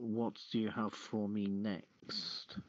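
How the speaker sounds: normal talking voice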